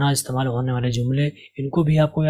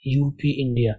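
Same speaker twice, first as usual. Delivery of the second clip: slow model reading; slower than usual. Shown as a demonstration. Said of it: "اور آپ اس کو کیسے پڑھیں گے".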